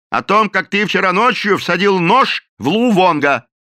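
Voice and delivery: loud high accusing shout; the captain shouts his accusation at the cook; angry accusation. A narrator's reading. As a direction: fling the accusation.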